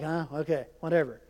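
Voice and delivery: low, meek giving-in mutter; resigned. Retold or imitated. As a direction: imitate a kid letting others push in. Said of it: "I was just kinda like".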